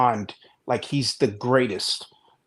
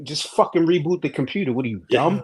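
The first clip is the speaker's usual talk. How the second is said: mildly exasperated mock reply, raised at the key demands; exasperated tech support; 3 semitones higher than usual. Help desk guy telling off an imagined caller, mock exasperated. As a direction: scold a clueless caller, playfully.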